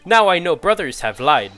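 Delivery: lightly voiced juror, pushing his point; blunt juror laying out the lie; stern Russian juror.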